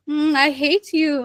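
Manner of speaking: a teasing, amused "Hmm, I hate you"; laughing. Shown as a demonstration. Teacher showing the class a joking tone, lightly amused. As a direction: say it jokingly, not meaning it. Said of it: "so you know for a fact I'm laughing".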